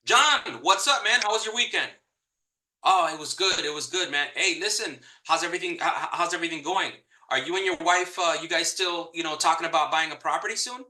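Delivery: casual, upbeat, like calling a friend; friendly buddy tone. Shown as a demonstration. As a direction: greet the client like an old friend. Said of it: "talk to them like you talk to a friend".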